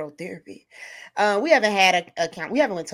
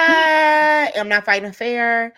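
louder, slowed, every word hammered; slow loud boast; emphatic declaration; 2 semitones higher, 7 dB louder, much slower than usual. Real, not acted. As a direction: proclaim it slowly like a battle cry. Boasting about fighting dirty.

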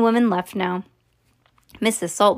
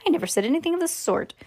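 fast protest; 7 semitones higher, much faster than usual. A narrator's reading. Wonka quick protest.

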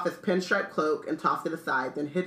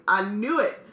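higher, excited character voice; gleeful shout; 5 semitones higher, 4 dB louder than usual. A narrator's reading. Stan tells Ern it is Harry Potter, gleeful cry. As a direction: crow it to your mate. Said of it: "Stan shouted gleefully".

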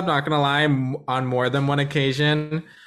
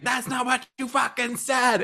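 pitched-up retold snap; mock drunk argument; 9 semitones higher, 3 dB quieter than usual. Arguing with her friend in an Uber, pitched-up mock anger. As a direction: replay the drunken fight, half-acted.

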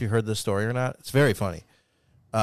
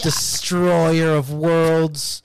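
dramatic whisper; 5 semitones higher, 3 dB louder, much slower than usual. Acted. Mock dramatic ad pitch.

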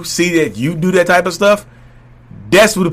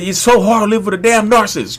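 exasperated wife; 7 semitones higher than usual. Retold or imitated. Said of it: "she called me a narcissist on the way out".

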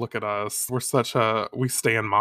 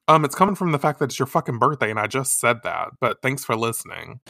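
sarcastic retort. Acted. Host sarcastically answers Mamoru's question.

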